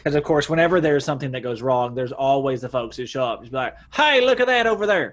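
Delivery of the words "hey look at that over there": high, loud gawker call; gawking bystander. Retold or imitated. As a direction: call out like a nosy onlooker. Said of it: "which is not how people sound in Boston".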